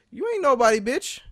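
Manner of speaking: sudden high, indignant jab; angry contempt. Real, not acted. Student to staff who demand respect, angry contempt. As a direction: throw it out high, straight at them.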